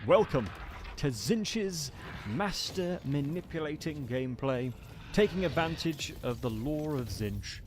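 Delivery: YouTube intro. Shown as a demonstration. Streamer opening his Tzeentch video for viewers, hyped intro. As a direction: kick off the video like a hyped host. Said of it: "YouTube intro incoming".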